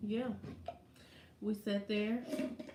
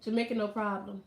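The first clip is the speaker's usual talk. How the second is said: Jamaican saying. Retold or imitated. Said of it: "That's what they say".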